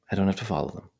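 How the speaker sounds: unhurried phrases set apart by long silences; guided meditation. Real, not acted. Meditation teacher guiding attention to the breath, calm measured voice. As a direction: talk listeners through it calmly, leaving space.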